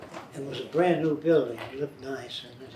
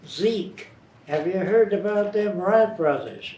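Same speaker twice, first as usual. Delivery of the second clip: rural farmer voice; 5 semitones higher, 4 dB louder than usual. Retold or imitated. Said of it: "I learned to imitate them".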